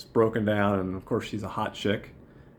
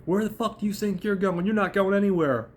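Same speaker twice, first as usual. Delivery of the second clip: imitated yell; 10 semitones higher than usual. Liza to Chip as he starts to walk out, high mock yell. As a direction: act out her yelling in a raised, high voice. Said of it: "she yells at him".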